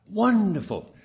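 delighted. Retold or imitated. Delighted reply to agent.

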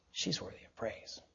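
very soft, low near-whisper; hushed approval. Acted. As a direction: breathe it out quietly, as God's verdict. God's hushed approval, voiced by preacher.

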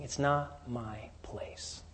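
slow, whispered and humble; hushed whisper. Acted. Michael declining before the devil, in a slow whisper. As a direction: breathe it as a reverent refusal. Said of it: "Michael is saying".

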